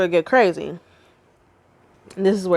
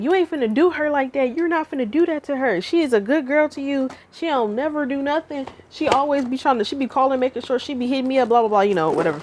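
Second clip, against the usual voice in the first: mom; 6 semitones higher than usual. Retold or imitated. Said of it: "she was like".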